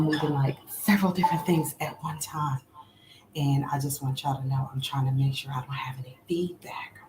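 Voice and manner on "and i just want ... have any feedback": breathy whisper while fixing the mic; hushed so the mic won't echo; half-whispered aside. Real, not acted. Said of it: "my bad if I'm whispering".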